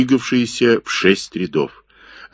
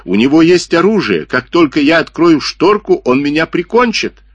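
high, louder frightened pleading; 9 semitones higher, 4 dB louder than usual. Acted. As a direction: panic rising in his voice. Джипа afraid of gunman. (в панике, громче)

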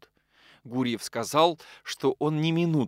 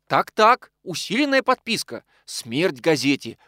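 excited haggling; 5 semitones higher, 4 dB louder than usual. Acted. Полозов торгуется.

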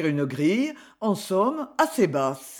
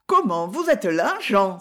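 exclaiming. Acted. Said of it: "s'écria-t-elle".

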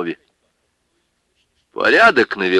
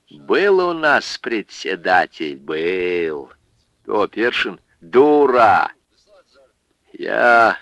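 put-on lecturing drunk; slower than usual. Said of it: "изрёк поучающий Пётр Житов".

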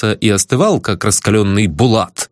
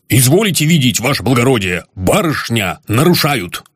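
a hint of a saluting constable; eager reporting policeman. A narrator's reading. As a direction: report it briskly, eager to please. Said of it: "стремительно козырнул и доложил".

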